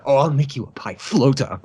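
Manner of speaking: lightly voiced willing woman; obliging woman. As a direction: act out a happily obliging reply, lightly. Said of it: "she'll happily oblige".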